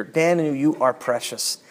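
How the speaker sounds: soft, gentle "Daniel, you are precious"; tender reading. Shown as a demonstration. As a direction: say it like a loving father to his child. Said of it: "the N I V loses a little bit of that".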